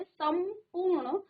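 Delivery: संपूर्ण with a held m before पू; teacher sounding out संपूर्ण; pronunciation demonstration. Shown as a demonstration. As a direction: linger on the m of संपूर्ण. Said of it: "तो उच्चारण में आप देखेंगे".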